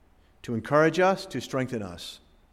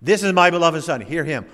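booming voice of God; 2 semitones higher, 4 dB louder than usual. Acted. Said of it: "God had their attention".

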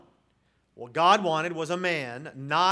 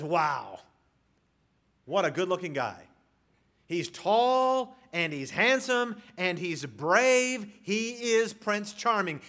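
mock admiration; 2 semitones higher, 3 dB louder, slower than usual. Preacher voicing Samuel sizing up Eliab, mock admiration. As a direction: gush a little, stretching each compliment.

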